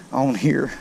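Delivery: ordinary delivery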